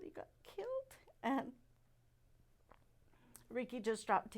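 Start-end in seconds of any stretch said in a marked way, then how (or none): 0.0-1.0 barely voiced whisper, high and broken; whispered news. Mother tells her husband their son was killed, whispering. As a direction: breathe the words out, unable to say them aloud.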